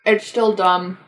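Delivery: talking around a bite of bagel; words muffled by chewing; mouth full. Real, not acted. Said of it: "Sorry, I'm eating".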